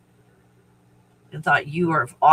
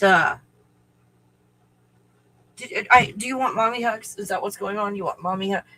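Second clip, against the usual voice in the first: talking to the puppy; 3 semitones higher than usual. Real, not acted. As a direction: coo at the dog gently.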